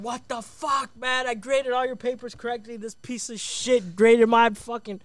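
high-pitched outrage at normal volume; mock an indignant rant, pitched high; imitation of a furious classmate's outburst; retold angry yelling. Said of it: "yelling at everybody".

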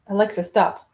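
sharp scolding "Alexa, stop"; curt command. Retold or imitated. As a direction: snap it like a scolding. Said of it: "It's like she's doing something bad".

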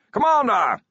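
loud, high, delighted greeting; happy bellow. A narrator's reading. Wizard hailing the commander in the garden shed, happy bellow. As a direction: bellow it out joyfully. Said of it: "it bellowed happily".

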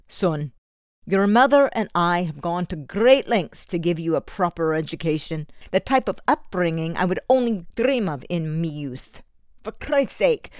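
a lightly voiced stern Scottish father lecturing; stern foster father. Foster father pressing Eddie to take a trade, lightly voiced stern lecture. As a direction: lay down the law to your foster son, firmly.

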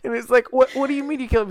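high and loud, laughing while retelling. Retold or imitated. Sibling retells brother's creepy dinner line, laughing. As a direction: cackle through the shock.

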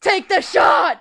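a sudden high, loud hammed-up yell; mock shout. Harriet hiding the order from the Doctor, sudden mock yell. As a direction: blurt it out in a spin, then turn back. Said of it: "she's actually like".

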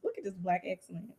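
soft, hushed admiration; awed murmur. Retold or imitated. Fan watching the elevator descend, hushed awe. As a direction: breathe it out in awe. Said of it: "I said".

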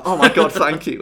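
hammed-up relief; grateful relief. Acting out relief at the bear.

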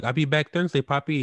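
high, loud mock promise; imagined detainee. Friend imagining the detainee promising to return, mock-emphatic. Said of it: "I can just imagine him saying".

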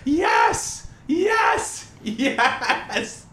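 high gasp, then cheering "yes"; triumphant shouts. Real, not acted. Triumphant cheers after the prank.

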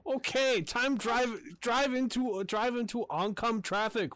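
loud, high hammed-up mock Chinese accent. Gamer friend riffing on Rush Hour in a loud, high mock accent. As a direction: bark it out as a caricatured Chinese driver. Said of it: "Wrong Chinaman accent".

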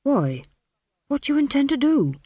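losing his grip. A narrator's reading. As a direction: voice rising high in alarm. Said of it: "beginning to lose his grip".

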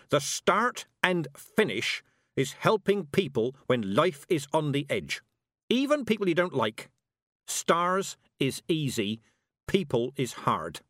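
put-on old witch driving her point home; scornful old witch. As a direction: preach it like a stern old witch.

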